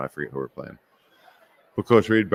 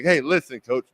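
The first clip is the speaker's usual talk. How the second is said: tough voice; 4 semitones higher than usual. Retold or imitated. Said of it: "put the bass in your voice".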